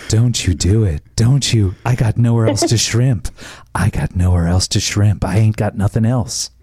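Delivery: low, lightly sultry movie quote; sexy voice. Acted. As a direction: purr the line in a low voice. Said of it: "do the sexy voice again".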